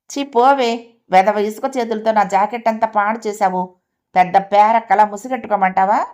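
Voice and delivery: put-on annoyed aunt brushing off a sandy-handed kid; irritated scolding. Aunt scolding her niece for sandy hands, irritated. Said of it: "మళ్ళీ విసుక్కుంది లలిత".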